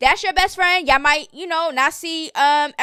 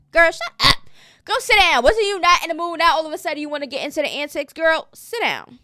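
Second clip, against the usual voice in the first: higher, sharper clapback, sit down slowed; sassy telling-off; 4 semitones higher than usual. Real, not acted. Vlogger telling a castmate to sit down, sassy clapback. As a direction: scold her like a messy castmate. Scolding a cast member.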